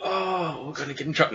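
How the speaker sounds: high-pitched comic wail; mock dismay at being caught; Gosberg. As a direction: lament it, drawn out and hammed-up. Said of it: "Gosberg is like".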